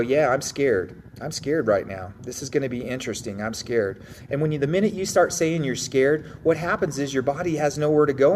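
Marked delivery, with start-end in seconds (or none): 0.0-4.0 matter-of-fact admission. Acted. Grappler admits fear to himself before a match, matter-of-factly. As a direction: own up to it calmly, falling at the ends. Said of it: "I'll instantly in my mind go".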